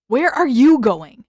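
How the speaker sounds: calling after. Acted. Sokka calling after Zuko.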